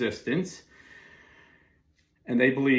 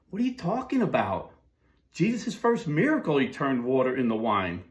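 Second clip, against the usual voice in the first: higher, lightly voiced Italian New Yorker, incredulous; New York pastor; 3 semitones higher than usual. Pastor retorts to his preachy neighbor, mock-incredulous. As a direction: fire back like a New York Italian pastor, half-amused. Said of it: "And he looks at it and goes".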